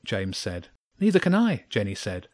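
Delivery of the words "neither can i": relieved excitement. A narrator's reading. Relieved girl after escaping trouble.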